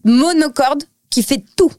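mock monotone voice. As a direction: drone it like the Polish voice-over. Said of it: "Et le monocorde". (voix monocorde imitée)

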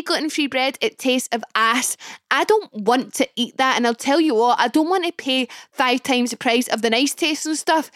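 usual speaking voice

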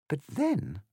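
a hint of a puzzled girl thinking aloud; lightly voiced Alice. A narrator's reading. Alice speaks in a story.

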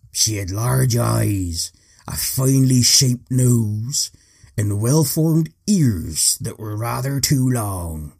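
slow, lightly voiced old pirate; a hint of a seafaring pirate. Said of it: "time for generic seagoing man pirate voice type thing".

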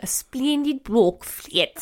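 slow, exaggerated upper-class English royal accent; Princess Margaret. Shown as a demonstration. Urging co-host to try it, mock-royal English accent. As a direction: show off the posh royal English vowels. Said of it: "Try saying".

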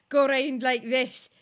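stereotype Scottish accent, slow; hammed-up Scottish accent. Shown as a demonstration. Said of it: "I'm doing the stereotype version".

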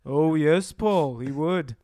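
lightly voiced drummer impression; a famous drummer. Drummer agreeing with Paul, light impression.

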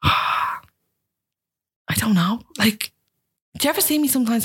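very slow breathy whisper; asked if she feels worthy, a slow whisper; whispered unsure. Real, not acted. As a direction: barely whisper it, lost for an answer. Sighs, asked if she's worthy.

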